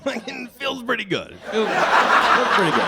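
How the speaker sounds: high giggly delight; enjoy it through laughter; high, loud giggling, slowed; laughing. Real, not acted. Laughing about friend.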